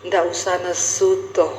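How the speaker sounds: low, slow Javanese husband; lightly mimicked Javanese calm; imitated Javanese husband. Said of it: "Tapi nadamu tuh nesu".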